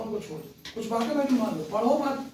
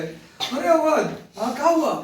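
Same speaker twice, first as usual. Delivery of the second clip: raised, louder mock phone voice; acted phone greeting; 5 semitones higher, 6 dB louder, much slower than usual. Teacher acts answering a friend's late-night call, raised phone greeting. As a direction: answer a call loudly, pitched up.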